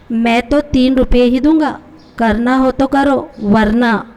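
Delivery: lightly voiced threat to take it or leave it; mildly menacing ultimatum; understated threatening boss. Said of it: "دھمکی آمیز لہجہ تھا".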